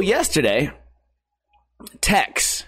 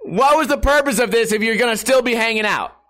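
exasperated; 6 semitones higher than usual. Real, not acted. Exasperated rant continues.

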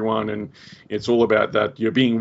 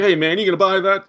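louder, higher shopkeeper demand; gruff shopkeeper voice; 8 semitones higher, 4 dB louder than usual. Retold or imitated. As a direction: bark it like a shopkeeper. Voicing newsstand owner.

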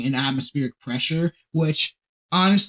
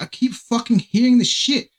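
higher-pitched mock accent slipping into Australian; wandering accent attempt; 6 semitones higher than usual. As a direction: do a botched Australian-tinged accent. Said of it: "I'm going into fucking Australia".

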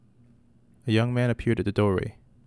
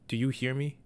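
screamed; 3 semitones higher than usual. Acted. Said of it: "she screamed directly into it".

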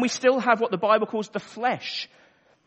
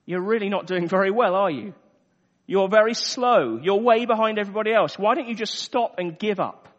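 accusing voice; 3 dB louder than usual. Acted. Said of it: "an accusing voice coming from the sidelines".

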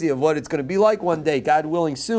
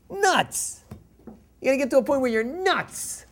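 fervent exclaim; 7 semitones higher than usual. Real, not acted. Rabbi telling students love drives you nuts, fervent exclaim. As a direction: pitch way up on nuts.

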